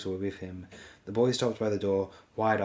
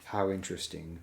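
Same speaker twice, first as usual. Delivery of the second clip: flat. Acted. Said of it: "said in a flat voice".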